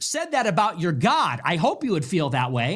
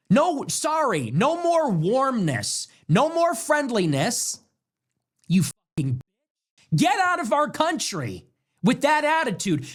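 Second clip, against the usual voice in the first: heated, higher-pitched rejection; angry rebuke; 4 semitones higher than usual. Real, not acted. Host telling them to get out of our country, angry rebuke. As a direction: lay down the law, indignant. Ordering disloyal people out.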